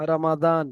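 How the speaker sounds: "রমাদান" with a heavy D, not Z; Arabic pronunciation. Shown as a demonstration. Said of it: "আরবি থেকে যে সমস্ত ভাইরা বলেন". (আরবি উচ্চারণে "রমাদান")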